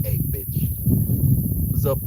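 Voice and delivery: cheeky mock greeting. Imagined barging into school offices.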